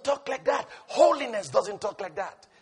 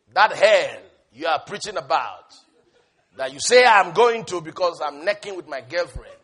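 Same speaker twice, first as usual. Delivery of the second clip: threatening man; 6 semitones lower, 3 dB louder than usual. Retold or imitated. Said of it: "The guy said to me".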